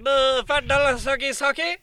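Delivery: high mock seductive offer; femme fatale. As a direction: tease like a hammed-up hustler. Joking proposition on phone.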